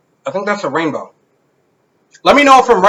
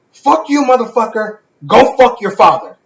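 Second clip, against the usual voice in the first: mildly heated mock cursing-out; retold aggression; 3 semitones higher than usual. Retelling the scam caller's insult, mildly aggressive. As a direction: imitate an aggressive caller, pitched up at first. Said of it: "this dude got super fucking aggressive".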